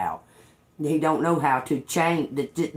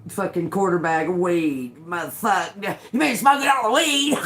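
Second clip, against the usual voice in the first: imitating the bandmate. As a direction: play the pouty musician blowing up over the weed.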